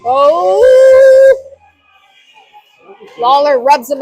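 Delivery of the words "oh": sudden high loud exclamation; surprised oh. Real, not acted. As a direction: burst out in surprise. Blocked shot reaction.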